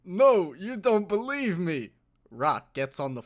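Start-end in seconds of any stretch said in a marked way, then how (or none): 0.0-1.9 Stallone impression. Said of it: "who has the better Stallone impression".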